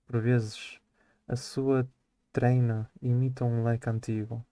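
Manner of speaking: measured poetry reading for class; poem recitation. Acted. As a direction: read the verse with steady, even weight. Student reads poem aloud.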